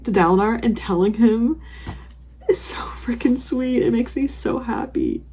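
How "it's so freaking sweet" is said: slow, whispered tender gush. Real, not acted. Reader touched by a sweet moment, slow whisper. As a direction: breathe it out, touched.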